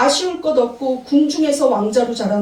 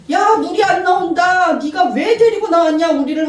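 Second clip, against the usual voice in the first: higher, louder mock grumbling; complaining people; 6 semitones higher, 4 dB louder than usual. Israelites grumbling at Moses, higher complaining voice. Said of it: "하면서 원망, 불평".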